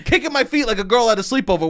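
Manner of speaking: chuckling through the words; laughing. Real, not acted. Recalling kicking his feet as a kid, laughing. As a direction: laugh as you picture yourself.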